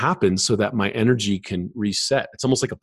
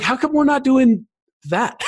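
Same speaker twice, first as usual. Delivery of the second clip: higher and louder, almost pleading; eager indignant question; 3 dB louder than usual. Retold or imitated. Student asking teacher why they skip Tai Chi, eager and indignant. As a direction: demand to know why you're missing out. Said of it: "I'm like".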